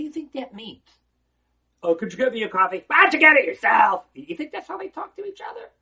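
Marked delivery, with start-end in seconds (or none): 1.8-2.8 bossy demand. Retold or imitated. Students imagined ordering each other around. 2.9-4.1 loud, sharp, high comeback; rude retort. Retold or imitated. Student snapping back at a classmate, loud and rude.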